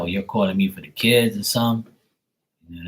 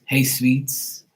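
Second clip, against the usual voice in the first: imitating brother-in-law; 5 semitones higher than usual. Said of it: "he calls my sister Sweets".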